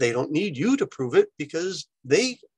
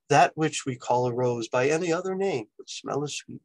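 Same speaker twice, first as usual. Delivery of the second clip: mock Juliet. Shown as a demonstration. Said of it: "It's not my best Juliet impression".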